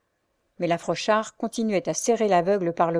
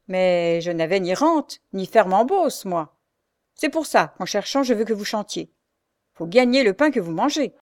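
scolding; 3 dB louder than usual. Acted. The Frochard scolds Louise, fists on hips. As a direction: berate the blind girl. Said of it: "se mettant les deux poings sur les hanches".

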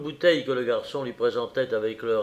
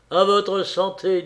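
higher, louder, drawn-out toast; hearty toast; 6 semitones higher, 5 dB louder than usual. A narrator's reading. Parisian toasting his new drinking companion, hearty. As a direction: raise a glass with gusto.

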